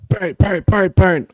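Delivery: loud, high, percussive bangs; imitated door banging. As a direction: pound out each word like knocks. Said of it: "on your bedroom door to kinda wake you up".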